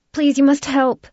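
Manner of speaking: put-on high, loud, pleading stranger's voice with a flat accent; desperate plea in an unplaceable accent. A narrator's reading. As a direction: beg for help in a foreign accent. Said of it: "she declared in a flat accent".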